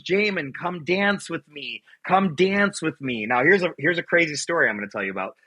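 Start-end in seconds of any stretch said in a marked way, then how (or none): 0.0-3.3 slow, higher-pitched voice for Mom; mother inviting. Retold or imitated. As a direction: lightly imitate a mother coaxing her child to dance. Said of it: "she goes".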